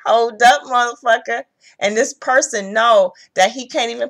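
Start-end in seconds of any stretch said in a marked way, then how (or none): 0.1-1.4 louder, sassy stop-right-there; indignant hold up. Retold or imitated. Reader voicing viewers halting the ex, louder sass. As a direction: call him out mid-step, louder. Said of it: "Y'all was like".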